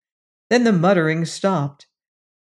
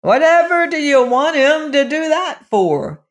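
higher, louder yell; 9 semitones higher, 5 dB louder than usual. Acted. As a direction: yell the question at the dwarfs. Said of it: "yelled George".

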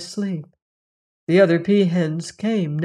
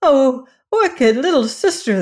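high, loud wailing cry; crying out in grief; 7 semitones higher, 5 dB louder than usual. A narrator's reading. Slow, high lament over a terrible deed. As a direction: sisters wail at the little peahen, high and loud. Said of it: "they cried".

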